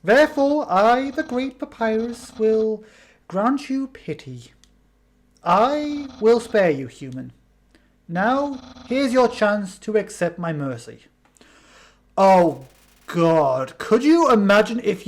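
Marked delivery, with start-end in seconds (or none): 0.0-11.0 lightly voiced Papyrus. Voicing Papyrus in a game.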